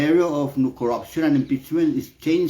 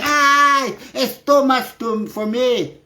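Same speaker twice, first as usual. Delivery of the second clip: mock whining; 8 semitones higher, slower than usual. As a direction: ham up a crybaby moaning it's too much. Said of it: "Lipan like freaking sitting in there like".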